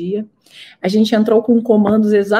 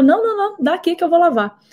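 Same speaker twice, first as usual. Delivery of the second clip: voicing her mother; 8 semitones higher, faster than usual. Mother voiced in retold story.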